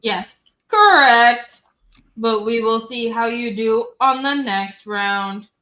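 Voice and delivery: flat mechanical robot voice. Acted. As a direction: speak like a quiz robot. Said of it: "You wanna do the robot voice".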